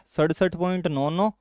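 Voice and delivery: सड़सठ point नौ नौ with each digit after the point said separately, not as निन्यानवे; read digit by digit. Shown as a demonstration. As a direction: say नौ नौ as two single digits. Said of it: "इसको निन्यानवे नहीं पढ़ते हैं".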